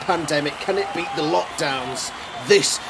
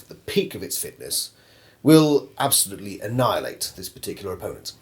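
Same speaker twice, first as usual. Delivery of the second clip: a lightly voiced boastful competitor, lower; lower cocky robot owner; 6 semitones lower than usual. Competitor boasting to the interviewer, low and smug. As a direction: brag with low, smug confidence. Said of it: "Australian Bruce with this Brutalizer".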